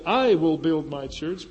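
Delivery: "I" lifted and stressed; "I" stressed, rising tune. Shown as a demonstration. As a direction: put the weight on "I" in "I will build my church". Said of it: "but you could say".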